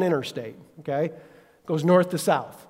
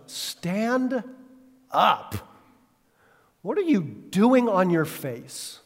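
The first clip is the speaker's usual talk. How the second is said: God's rebuke; 2 semitones higher, much slower than usual. Retold or imitated. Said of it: "Then the Lord said to Joshua".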